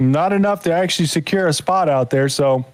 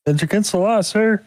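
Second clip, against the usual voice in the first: higher, lightly voiced officious clerk; mock poll worker; 7 semitones higher than usual. Poll worker scolds a voter showing ID, higher and prim.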